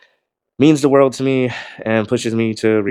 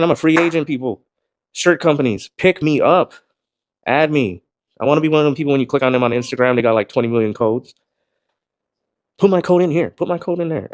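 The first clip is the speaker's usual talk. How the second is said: excited pitch; 4 semitones higher than usual. Real, not acted. Pleading to shirt companies.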